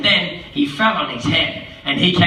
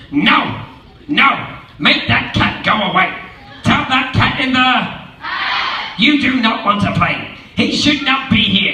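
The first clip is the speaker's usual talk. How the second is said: fussy fish; 3 semitones higher than usual. Acted. The fish orders the cat away, mildly indignant. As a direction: scold like a worried fish.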